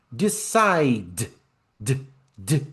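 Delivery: "Decide" with the d released and repeated alone; bare final d. Shown as a demonstration. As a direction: isolate the d of "Decide" without a vowel. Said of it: "não é sílaba".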